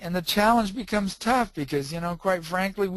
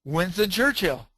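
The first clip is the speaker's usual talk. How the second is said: mildly raised, retold blurt; 3 semitones higher than usual. Man interrupting a training class, imitated blurting out. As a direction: imitate someone suddenly blurting out a name. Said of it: "And he just goes".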